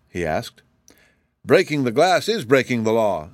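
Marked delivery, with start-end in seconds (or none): 1.5-3.3 a lightly squeaky, mildly cross retort; squeaky angry gardener. Acted. Gardener scolding Shaggy for the broken glass, mildly squeaky and angry. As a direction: squeak it out with mild indignation. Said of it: "squeaked the gardener angrily".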